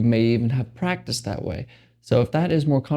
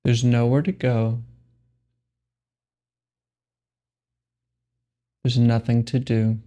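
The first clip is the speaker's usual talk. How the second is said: slow, spacious meditation guidance with long pauses; guided meditation. Acted. Meditation guide telling listeners there is nothing to do, unhurried guided meditation. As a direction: lead them unhurriedly into stillness, pausing between phrases.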